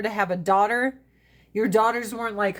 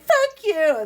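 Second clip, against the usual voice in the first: retorted curse; 9 semitones higher, 5 dB louder than usual. Retold or imitated. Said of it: "I was like".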